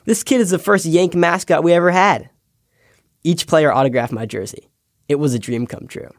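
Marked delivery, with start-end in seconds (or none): 0.1-2.3 lightly imitated Texan exclamation, a bit higher; a touch of Texas twang on an excited remark. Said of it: "he exclaimed in his Texas twang".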